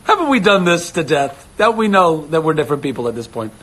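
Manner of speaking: high, pleading come-on; mock exasperated plea. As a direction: plead that this is old news. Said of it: "I was like".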